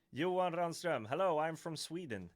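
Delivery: mock Swedish accent. Greeting chat in a put-on Swedish accent. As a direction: play up a thick Swedish accent for laughs. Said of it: "that's not my real accent".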